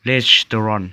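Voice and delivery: "restaurant" said as "res-tor-ron", ending in n; crisp demo of "restaurant" with an -n ending; native pronunciation. Shown as a demonstration. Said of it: "คนฝรั่งเขาจะมาออกเสียงว่า".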